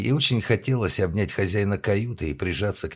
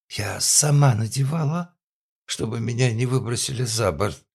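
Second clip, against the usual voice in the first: put-on drunk woman voice; 6 semitones higher, 4 dB louder than usual.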